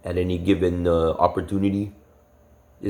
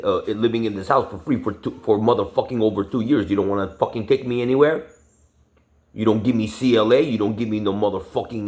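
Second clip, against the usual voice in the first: retold rant; 3 semitones higher than usual. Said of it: "I told him straight up".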